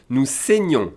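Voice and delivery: "saignons" with a closed é in the first syllable; accent aigu demonstration. Shown as a demonstration. Teacher showing the vowel change, closed accent aigu sound. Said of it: "Now you hear E accent aigu".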